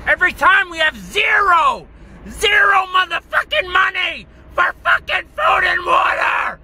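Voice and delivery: high-pitched, furious shouting; enraged rant. Real, not acted. Man raging about begging his brother for money, enraged shouting. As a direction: shout it in real rage, pitch pushed up. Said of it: "this video of rage".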